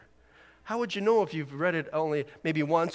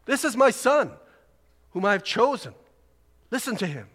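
a lightly raised commanding God voice; 6 semitones higher, 4 dB louder than usual. Retold or imitated. Preacher quoting God's words to Peter, mildly commanding. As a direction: proclaim it like the voice from the cloud. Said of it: "That was for Peter".

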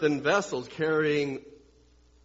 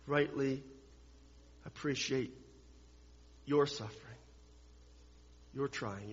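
tender voicing of Jesus; 2 semitones lower, 9 dB quieter than usual. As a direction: speak gently to the suffering, with long pauses. Voicing Jesus' words to sufferers.

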